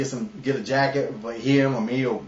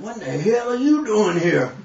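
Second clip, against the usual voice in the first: put-on angry old man; 6 semitones higher, 3 dB louder than usual. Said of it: "I was like".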